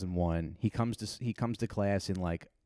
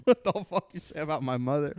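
higher, hammed-up angry yell; mock rage; 7 semitones higher, 4 dB louder than usual. Student flipping his desk, hammed-up yell. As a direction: shout it at the teacher. Kid flips desk, repeated.

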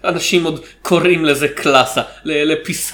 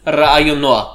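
put-on semi-classical accent; 2 semitones higher, 3 dB louder than usual. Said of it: "איבדתי את המבטא הסמי-קלאסי שלי".

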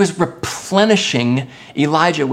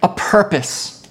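emphatic exhortation; 6 semitones higher, slower than usual. Acted. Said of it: "He was reminding Elijah".

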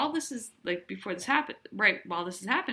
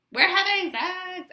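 higher, slow, teasing come-on; mock seductive Chloe; 11 semitones higher, 5 dB louder, slower than usual. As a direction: drag it out like a vamp. Chloe tries seducing Jeremy at party.

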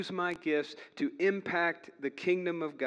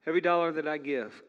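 upbeat pitchman read; infomercial voice; 2 semitones higher, 6 dB louder, faster than usual. Acted. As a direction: sell it like a late-night ad. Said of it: "starting to sound like an infomercial".

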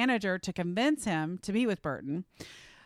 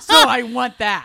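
laughing; 2 semitones higher, 12 dB louder, slower than usual. Real, not acted. Laughing at friend's violent answer.

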